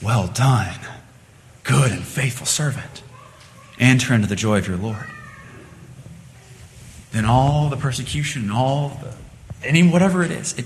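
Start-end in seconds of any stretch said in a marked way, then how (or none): 0.0-5.1 low, soft words of welcome; gentle commendation. Acted. God welcomes the persecuted servant home, gently approving. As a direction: commend quietly, pausing between phrases. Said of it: "and God says".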